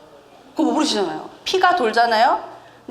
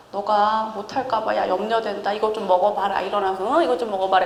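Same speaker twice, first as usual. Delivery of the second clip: coaxing angel; 2 semitones lower than usual. Retold or imitated. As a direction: coax him to eat, tenderly. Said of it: "이렇게 달래죠".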